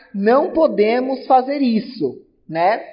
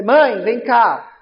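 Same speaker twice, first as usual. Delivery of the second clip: slow, louder call stretched out; calling mom; 5 dB louder, much slower than usual. Retold or imitated. Child calling his mother to come over, slow loud call. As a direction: call mother from the next room. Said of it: "pode ser também pra sua mãe".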